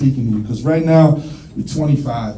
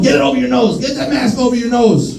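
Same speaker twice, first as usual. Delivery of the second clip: mock yelling ex; 6 semitones higher than usual. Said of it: "Yelling at people about covid".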